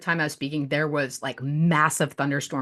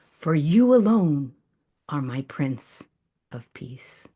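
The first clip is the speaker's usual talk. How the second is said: poem reading; slower than usual. Acted. Reciting her poem to the group, hushed and devotional. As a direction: read it like a prayerful poem.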